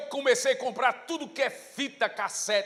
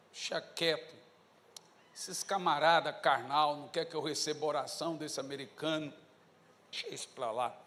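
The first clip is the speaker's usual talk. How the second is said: discouraged mutter; 9 semitones lower, 7 dB quieter than usual. Retold or imitated. Giving up, sulking to himself.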